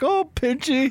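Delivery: put-on weepy sobbing cry, high and tearful. Retelling a cartoon scene of eating a pet lobster: imitating Homer Simpson crying. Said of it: "he's crying".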